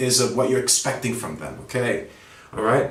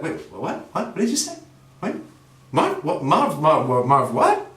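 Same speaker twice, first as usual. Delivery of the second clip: baffled coworker; 3 semitones higher than usual. Retold or imitated. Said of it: "They're gonna be like".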